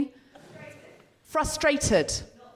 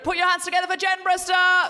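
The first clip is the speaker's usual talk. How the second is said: rising, held-out stage introduction; announcer introduction; 3 semitones higher than usual. Real, not acted. Host bringing comedian on stage, rousing announcer call. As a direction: sing out the guest's name to the crowd.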